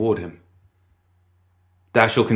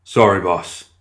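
stoic; 4 dB louder, slower than usual. Acted. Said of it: "was the stoic reply".

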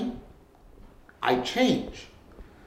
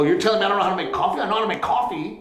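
indignant retort; 4 semitones higher, much faster than usual. Retold or imitated. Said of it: "I go".

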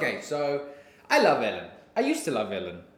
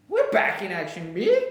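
squeaky high B; 2 semitones higher, 4 dB louder than usual. Shown as a demonstration. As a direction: back in action with the B jumping very high and loud.

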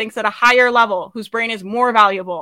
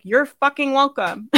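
cocky you're welcome. Retold or imitated. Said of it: "my whole vibe is like".

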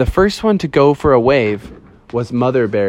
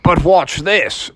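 tag; 4 semitones higher, slower than usual. Acted. Father bear shows off.

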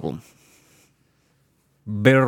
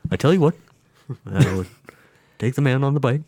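Bernie impression; 3 semitones higher, faster than usual. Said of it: "It kinda sounds like Bernie with your inflection".

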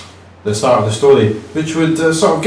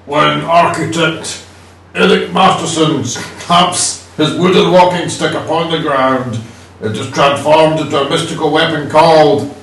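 dramatic comic narrator voice. Acted. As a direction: read it like an epic comic intro. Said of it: "I'm gonna do the voice of Eric Masterson himself".

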